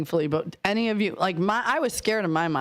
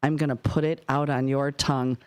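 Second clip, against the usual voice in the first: stern warning; 4 semitones lower than usual. Retold or imitated. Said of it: "looking at me dead in the eye".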